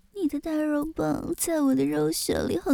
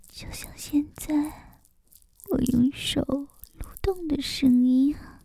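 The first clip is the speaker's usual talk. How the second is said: whispering. Acted. Erotic whispered roleplay.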